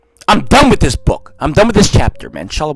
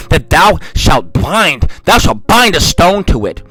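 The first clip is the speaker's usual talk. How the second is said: scripture reading; 2 semitones lower than usual. Acted. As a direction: intone the prophecy gravely. Reads scripture aloud.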